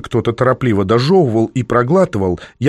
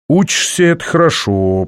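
words stretched out, starting high; drawn-out; 6 semitones higher than usual. A narrator's reading. Man weighing the girl's studies, drawling it out. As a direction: draw it out, dropping from high. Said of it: "протянул я".

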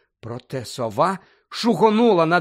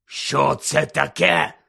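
hoarse question; 4 dB louder, much slower than usual. Acted. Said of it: "захрипло спитав дядько Вернон".

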